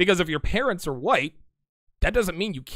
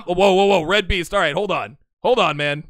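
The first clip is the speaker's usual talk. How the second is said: real call to stop; 6 dB louder than usual. Real, not acted. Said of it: "Red Beast jacking up show".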